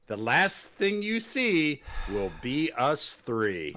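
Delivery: slow, overdone threat; a lightly mocked villain catchphrase; mock menacing line. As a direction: drag out the threat mockingly. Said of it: "their go home is line".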